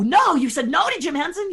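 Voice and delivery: mock people's shock; incredulous. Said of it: "And people go".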